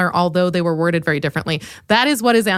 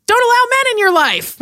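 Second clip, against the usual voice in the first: mock sister voice; 4 dB louder than usual. Quoting sister's advice about men.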